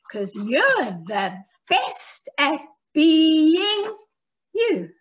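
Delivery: slow, rhythmic recitation with drawn-out key words; children's rhyme. Shown as a demonstration. Teaching children a rhyme about being yourself, slow sing-song recital. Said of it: "let's do it again".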